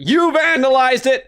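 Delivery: loud, slow, outraged cry; angry accusation. Acted. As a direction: hurl the accusation. Accusing game character loudly.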